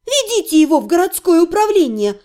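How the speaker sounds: angry, cold order; spiteful. Acted. Heroine ordering the men to take the necromancer away, angrily. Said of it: "злобно сказала я".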